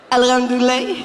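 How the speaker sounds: a lightly voiced Malian accent, falling and laughing; Malian reply. Malian man answering a greeting, lightly accented. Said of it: "Ça donne, euh".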